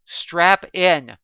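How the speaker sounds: loud, clipped command to buckle up; sharp order. Acted. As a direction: bark it urgently. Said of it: "Ricky ordered".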